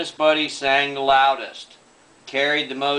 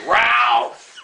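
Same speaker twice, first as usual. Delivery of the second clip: mock retching; 9 semitones higher, 5 dB louder than usual. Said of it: "Buddy held his head over the bucket and said".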